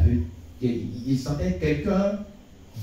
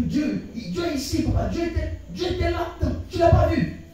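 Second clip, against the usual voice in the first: retold excited insistence; 11 semitones higher than usual. Tells the pastor God was there.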